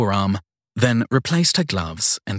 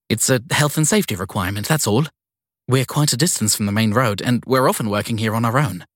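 put-on flustered young woman. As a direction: caught off guard and eager to please. Sadie explains nervously.

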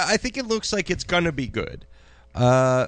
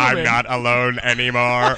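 mock tearful; 3 semitones lower, 4 dB louder, slower than usual. Mock robot-movie sob line.

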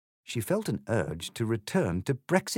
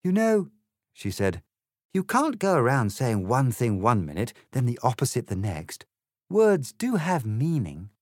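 put-on a slightly higher, prim girl's voice; polite Alice, lightly voiced; 4 semitones higher, 4 dB louder than usual. Alice politely answers the egg, lightly voiced girl. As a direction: explain it courteously, a proper little lady.

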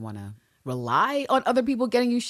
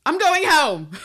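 high, loud announcement, louder on the repeat; huffy declaration; 13 semitones higher, 8 dB louder, slower than usual. Acted. Ann Lister leaving in a huff, indignant. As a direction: storm out, hitting it harder the second time. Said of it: "And then she says".

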